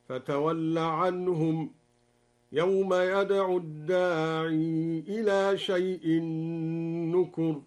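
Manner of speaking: الداعي with the final ya kept long, slow; ya retained demo. Shown as a demonstration. Teacher demonstrating the kept ya reading, slow recitation. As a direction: hold the final ya of الداعي, slowly. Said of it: "أثبت الياء في الداعي وصلا هكذا".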